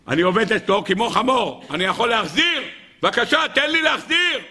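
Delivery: plea climbing to a high shout; exasperated plea. Acted. Indebted man begging the rabbi to let him repay, exasperated. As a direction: beg with rising urgency.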